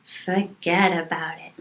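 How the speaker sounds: soft, understated Italian-American "forget about it"; attempted Italian-American accent. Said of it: "No, that's not how you do it".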